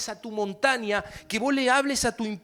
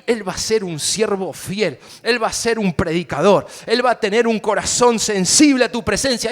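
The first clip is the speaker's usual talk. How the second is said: growing louder and more certain; faith declaration; 7 dB louder than usual. Pretend. Pastor acting a believer speaking faith over a relative, building. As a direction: declare it over a loved one.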